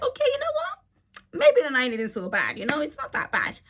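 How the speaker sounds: sudden high, giddy okay; brightening up at a handsome stranger; 1 flirty perk-up. Retold or imitated. Seeing the handsome stranger arrive, giddy and high.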